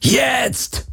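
sharp yelled command; shout. Acted. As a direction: bark it out. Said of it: "brüllte Garland".

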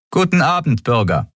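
a clipped official greeting in a high voice; curt. A narrator's reading. The guard curtly greeting the pair, high and terse. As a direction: greet them brusquely, like a bored officer. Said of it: "sagte sie knapp".

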